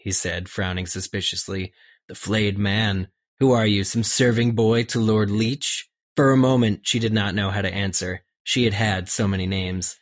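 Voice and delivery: reading a novel aloud with acted voices; reading the book scene to the co-hosts; story narration. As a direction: read the chapter out, giving each character a voice. Reads book passage aloud.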